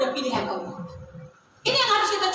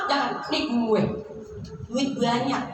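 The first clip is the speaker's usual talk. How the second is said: boastful husband; 6 semitones lower, 3 dB quieter than usual. Acted. Voicing a boastful rich husband.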